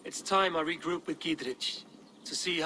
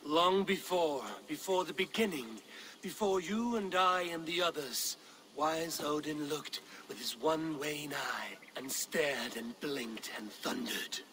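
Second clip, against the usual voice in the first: saga recital, sinking to a whisper. Acted. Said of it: "Sing me one of your sagas".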